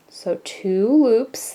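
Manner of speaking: slow, measured step-by-step instruction. Shown as a demonstration. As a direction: draw it out for learners. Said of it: "repeat this a little slower".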